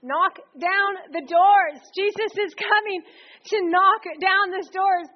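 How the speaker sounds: proclaiming. Real, not acted. Preacher proclaims breaking down doors.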